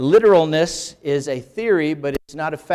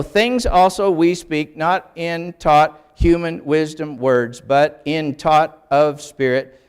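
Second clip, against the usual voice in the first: slow literal reading; 3 dB louder, slower than usual. Shown as a demonstration. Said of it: "how would you like to have that read that way?".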